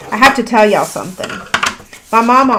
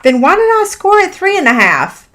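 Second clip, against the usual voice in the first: exasperated disbelief; 9 semitones higher than usual. Real, not acted. Crafter scolding herself for the wrong score line, exasperated high question. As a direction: ask yourself in disbelief. Catches her own measuring mistake.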